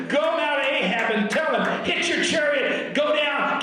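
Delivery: preacher acting out an urgent order; urgent command. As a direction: send the servant off with urgency. Acts Elijah's urgent order.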